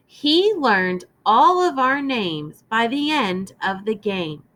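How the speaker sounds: clear, measured storybook reading; gentle read-aloud for a class; reading to children. Acted. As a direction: read it aloud to young listeners.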